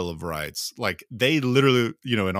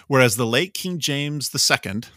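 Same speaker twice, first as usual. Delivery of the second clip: higher, louder document-reading voice; formal reading aloud; 5 semitones higher, 4 dB louder than usual. Real, not acted. Reading the English Bill of Rights to listeners, formal. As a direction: read it out like a proclamation.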